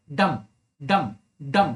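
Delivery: each डम low and drawn out; stressed, stretched डम. Shown as a demonstration. Teacher showing students stressed syllables, each डम stretched. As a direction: put weight and pull on every डम. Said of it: "खिंचाव पैदा हो रहा है".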